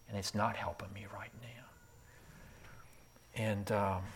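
slow, drained whisper; weary whisper. Retold or imitated. Chuck telling his friend the words don't help, whispered. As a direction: breathe it out, spent.

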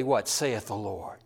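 ordinary delivery

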